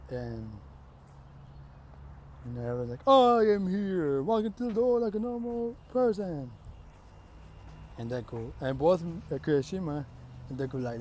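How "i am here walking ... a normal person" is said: loud, high, drawn-out hero proclamation; booming heroic entrance. Acted. Hero announces himself walking through the door, booming. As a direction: belt it out like a grand announcement. Everyone voices All Might's grand entrance.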